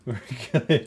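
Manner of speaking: said through a laugh. Real, not acted. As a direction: laugh while reassuring.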